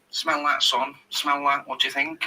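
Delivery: imitating a football manager's accent; Clough's accent. Manager offering the young player flowers, in an imitated accent. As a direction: put on the manager's regional accent. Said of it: "His accent's perfect".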